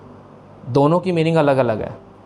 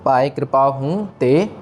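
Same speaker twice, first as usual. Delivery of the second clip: हूँ ते said apart with a rest on ते; separate words; slower than usual. Shown as a demonstration. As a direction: pause after हूँ, rest on ते. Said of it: "हूँ ते को जोड़ना नहीं है". (हूँ ते अलग-अलग, ते पर विश्राम)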